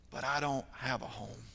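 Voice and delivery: quiet mock sob; imitating a sobbing boy. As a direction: let it crumble into a whimper. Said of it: "with how hard he's crying".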